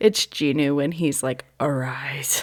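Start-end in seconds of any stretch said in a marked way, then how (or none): 1.6-2.4 deepened, hushed anime hero voice, dropped low. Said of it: "the way his voice just, like, deepened".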